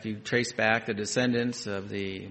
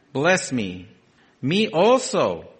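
pleading; 3 semitones higher, 6 dB louder, slower than usual. Acted. Esau begs again.

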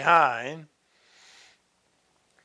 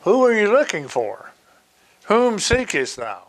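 raised, declaimed questions, falling at the ends; Jesus questioning Mary; 6 semitones higher, 4 dB louder than usual. Acted. Jesus asks Mary whom she seeks, high declaimed questions.

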